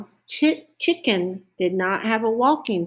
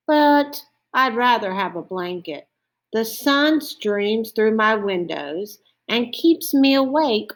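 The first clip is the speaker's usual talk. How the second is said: a hint of a sleepless owl, slightly raised pitch; lightly voiced owl; 3 semitones higher than usual. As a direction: lightly play a put-out storybook owl.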